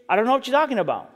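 fast, offhand brush-off; casual denial. Retold or imitated. Peter casually brushing off the servant girl, fast and offhand. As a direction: toss it away quickly, nothing big. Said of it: "notice the way he denies it. No, no, nothing big, just".

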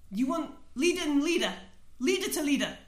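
high, loud goblin shout back. Acted. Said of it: "he shouts back in Chelton".

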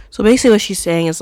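talking through a laugh. Real, not acted. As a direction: start the explanation while cracking up. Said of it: "I'm laughing because".

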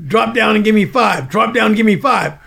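loud barked drill command; sergeant's order. Retold or imitated. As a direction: bark the order at the recruit. Sergeant ordering push-ups.

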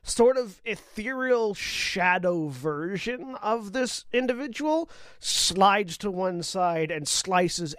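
slow, dramatic scene setting; measured storytelling, lingering on key words; game master narration. A narrator's reading. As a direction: draw out the action as a game master.

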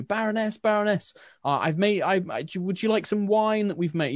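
high, eager townsfolk voice calling out; eager villager. Acted. Villager calls out to Baroness.

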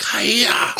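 high sharp karate cry; karate yell. Retold or imitated. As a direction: shout it like a karate kick. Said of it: "you made a karate noise".

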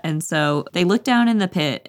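usual speaking voice

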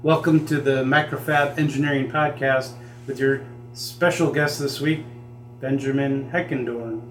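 modest stab at a radio host intro, slowing onto the name; a hint of radio presenter; attempted radio voice. Shown as a demonstration. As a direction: lightly announce the guest, drawing out the name. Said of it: "I don't do a radio voice, but".

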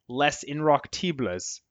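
French name in an American accent. Shown as a demonstration. Guest trying a French magazine's name for the host, American accent. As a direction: say the French title with plain American sounds. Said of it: "that's how they said it in my American accent".

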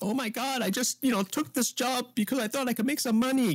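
mock Asian accent, high and insistent; stereotyped Asian accent. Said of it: "he has this Asian accent".

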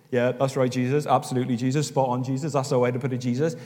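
mock-wise, knowing approval; sagely agreeing. Disciples pretending to follow Jesus' parables, mock-sage agreement. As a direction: nod along as if you understood it all. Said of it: "nodding very wisely and sagaciously".

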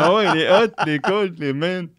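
les hot, les cold, les mains said high and loud in a mock French accent; mock Frenchman. Mocking French menus with a hammed-up French accent. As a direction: ham up the French menu English. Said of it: "c'était écrit appetizers".

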